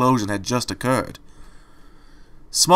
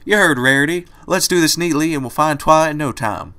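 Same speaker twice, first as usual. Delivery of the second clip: rallying; 5 semitones higher, 4 dB louder than usual. Acted. Applejack rallying.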